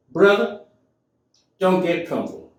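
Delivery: self pep talk. Retold or imitated. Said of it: "I had a talk with myself".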